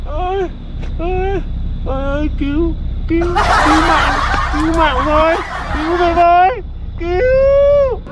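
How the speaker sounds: mock cry for help. Crying for help in race.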